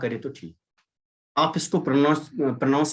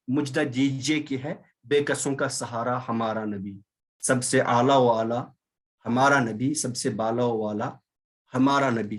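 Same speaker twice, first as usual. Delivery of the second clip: slow, lilting verse recitation; teacher recites a devotional verse to the class, slow and lilting; reciting a naat; 3 semitones lower, slower than usual. Acted.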